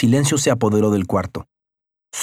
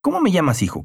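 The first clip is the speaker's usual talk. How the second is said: sarcastic; 6 semitones higher than usual. A narrator's reading. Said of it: "Carlos respondió sarcásticamente".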